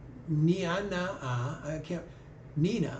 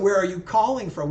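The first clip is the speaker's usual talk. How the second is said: louder, leaning on calling for a bad line; louder clear repeat; 7 dB louder than usual. Real, not acted. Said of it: "No, I said".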